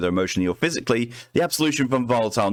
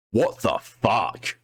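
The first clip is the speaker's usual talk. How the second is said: stunned; much slower than usual. Real, not acted. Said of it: "That was creepy as all fuck".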